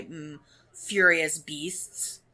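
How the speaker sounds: slow, dry sarcastic aside. Pretend. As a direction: say it with heavy irony. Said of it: "That was sarcasm voice".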